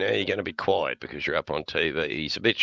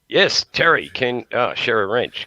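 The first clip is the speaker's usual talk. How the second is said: calling out; 6 semitones higher, 5 dB louder than usual. Real, not acted. Calling to cohost.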